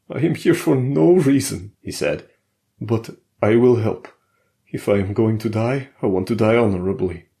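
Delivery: high, loud and urgent foreign voice; pushing the group to turn back, pitched well up; frightened Alexei. Acted. Alexei begging the others to flee, high and loud.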